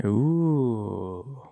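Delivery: soft, whispered intrigued reaction; intrigued hush. Real, not acted. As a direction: hush it, as if mulling a juicy reveal. Reacting to a surprising pick.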